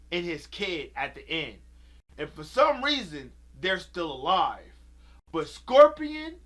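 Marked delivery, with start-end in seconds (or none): 5.3-6.4 loud, slowed outrage at the plot; indignant outburst. Real, not acted. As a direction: shout it out in disbelief. Ranting about the movie plot.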